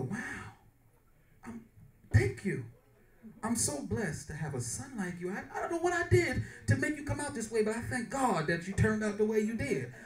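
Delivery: hushed, moved and halting; imitated grateful mother. Mother thanks son who paid her bills, hushed gratitude. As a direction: softly overcome with thanks, lightly acted.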